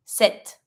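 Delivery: sept as "set", P left out; silent P. Shown as a demonstration. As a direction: say sept as if it had no P. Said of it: "Imagine that there's no P".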